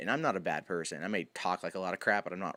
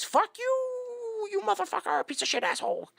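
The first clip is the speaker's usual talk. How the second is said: high furious yell at the caller; angry yelling; 5 dB louder than usual. Retold or imitated. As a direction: scream the insults in rage. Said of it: "he just goes".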